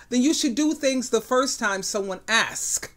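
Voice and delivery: "asks" set off firmly at the end; stress on ASKS. Real, not acted. Woman answers complaints about nagging, stressing "asks". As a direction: land pointedly on the word "asks". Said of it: "I put emphasis on the word ask".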